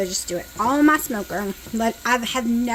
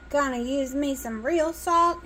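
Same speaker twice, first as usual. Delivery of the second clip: Southern country accent showing; 3 semitones higher than usual. Real, not acted. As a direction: let the country accent slip out. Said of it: "my country's coming out".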